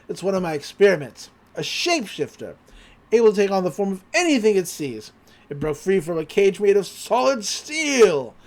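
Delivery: a hint of a dramatic old hermit; lightly voiced old scientist. Old man asking the boy to catch his creature, lightly dramatic. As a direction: play a grave old inventor, lightly.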